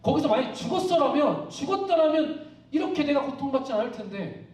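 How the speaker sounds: resentful challenge. Retold or imitated. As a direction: argue with God as Job. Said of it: "막 따집니다". (하나님께 따지듯 높은 목소리로)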